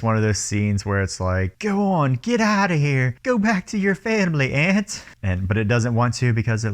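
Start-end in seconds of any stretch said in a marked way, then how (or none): 1.6-5.0 higher shooing voice, like sending off a pet; mock tearful farewell, lightly voiced. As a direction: wave her off in a higher voice. Shooing the aunt away.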